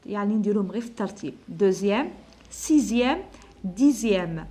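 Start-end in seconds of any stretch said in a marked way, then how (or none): 1.5-4.5 "Deuxième, sixième, dixième" with the x said as z; ordinal numbers read out. Shown as a demonstration. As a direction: model each ending "-zième" clearly. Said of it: "نسموهم les nombres ordinaux". (نطق "Deuxième" و"sixième" و"dixième" بحرف z)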